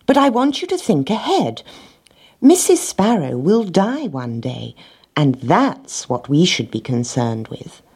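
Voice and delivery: a hint of a fussy hen. Little red hen speaks.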